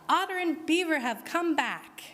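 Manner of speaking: high, excited cry. A narrator's reading. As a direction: call out the happy news. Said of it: "The people cried".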